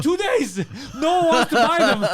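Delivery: high, loud mock whine; whiny high voice. Friend complaining to clinic staff, high mock whine.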